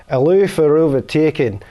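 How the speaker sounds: put-on slow down into a Scottish accent by the end. Reading a Scottish road sign to a friend, Scottish accent. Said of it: "And now in English?".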